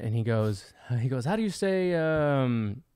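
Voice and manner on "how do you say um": retold Jamaican accent; thick Jamaican-style accent. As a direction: lightly mimic a Jamaican man asking. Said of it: "Jamaican, some kind of accent".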